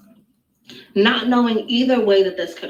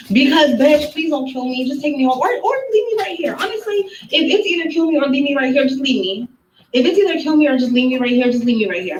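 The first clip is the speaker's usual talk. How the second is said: frantic pleading; 5 semitones higher than usual. Retold or imitated. Pleading for her life.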